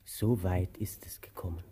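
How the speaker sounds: hushed whisper; resigned whisper. Acted. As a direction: breathe it out, barely voiced. Bitter aside to partner.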